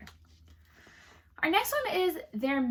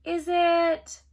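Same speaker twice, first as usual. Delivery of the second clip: slow, coy, drawn-out guess; queen savours springing the name; pretend thinking; 4 semitones higher, 4 dB louder, much slower than usual. A narrator's reading. Queen coyly guesses his name, slow. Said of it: "The queen pretended to think".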